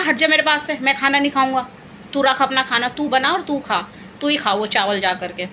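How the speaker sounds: half-hearted imitation of a sulking husband telling her off; retold angry outburst. Wife imitating her husband refusing dinner, mock angry.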